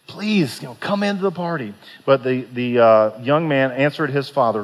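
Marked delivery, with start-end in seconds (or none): 0.1-1.7 gentle pleading. A narrator's reading. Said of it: "began to plead with him".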